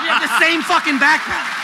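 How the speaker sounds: high, loud words through laughter; real helpless laughing punchline; laughing hard. Real, not acted. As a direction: squeeze it out while cracking up.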